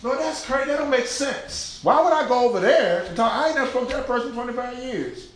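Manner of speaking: protesting to the Lord. Acted. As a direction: argue back like a balky believer. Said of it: "we tell the Lord things like".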